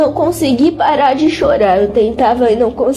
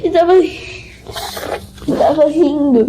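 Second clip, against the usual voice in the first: real tearful laugh; laughing through tears; 3 semitones higher than usual. Real, not acted. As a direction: let laughter spill into the words. Recounting vision, laughs while telling.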